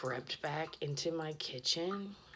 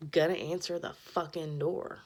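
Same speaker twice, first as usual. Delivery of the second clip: emphatic rant; 7 dB louder than usual. Real, not acted. Ranting about visitors.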